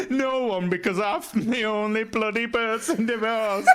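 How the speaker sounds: mock-bitter quiz host oversharing, half laughing; divorced quiz host. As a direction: let the divorce leak into the quiz. Plays divorced quiz host, amid giggles.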